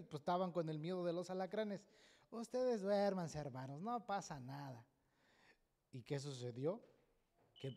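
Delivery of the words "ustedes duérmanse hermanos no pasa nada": lightly voiced unworried calm; calm reassurance. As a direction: imitate an untroubled evangelist soothing the brothers. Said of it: "bien tranquilo".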